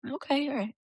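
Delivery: unvoiced whisper, a soft okay; whispered okay to herself; whispered aside. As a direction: breathe it out as a hushed reply. Whispered reaction to a confession.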